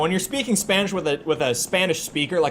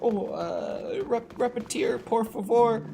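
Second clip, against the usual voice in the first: quieter, prim and careful "repetir, por favor"; mock an over-polite learner asking them to repeat; a hint of a stiff textbook speaker; stiff, overly formal Spanish learner; 5 semitones higher, 6 dB quieter, slower than usual. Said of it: "if you're overly formal and you're like".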